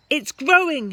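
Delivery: put-on high, loud excited boy; yelling excitedly. A narrator's reading. George yelling to Grandma that the hen grows. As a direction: call out thrilled, like a boy. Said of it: "he yelled".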